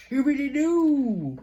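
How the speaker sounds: high, slow yelp; pained outburst. Real, not acted. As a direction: blurt it out through pain. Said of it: "I don't know where that came from".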